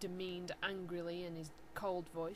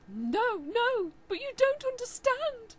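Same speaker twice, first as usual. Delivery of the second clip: high, louder begging; pleading; 9 dB louder, slower than usual. Acted. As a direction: beg him to listen. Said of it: "Draco pleaded".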